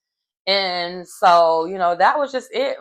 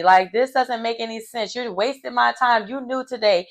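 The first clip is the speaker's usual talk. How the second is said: mock upset protest; 4 semitones higher than usual. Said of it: "And she's like".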